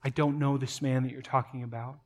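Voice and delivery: hushed remembered words; quiet echo. Acted. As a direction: let it land as a haunting memory. Denial recalled quietly in reflection.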